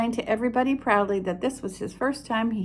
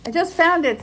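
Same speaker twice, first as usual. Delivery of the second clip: lightly voiced Pooh; 7 semitones higher, 5 dB louder than usual.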